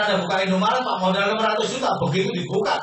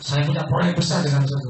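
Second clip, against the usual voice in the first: enthusiastic; 6 semitones lower than usual. Shown as a demonstration. Coach repeating the enthusiastic line to the audience, keen. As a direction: make the project sound exciting. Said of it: "Ngomongnya antusias gitu".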